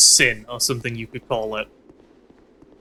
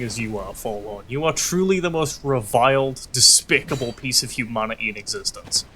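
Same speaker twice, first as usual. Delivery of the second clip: mock hate speech; 3 dB quieter than usual.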